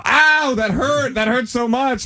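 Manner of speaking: mock hurt whimper. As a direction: whine it like a squashed cartoon character. Ball ran him over.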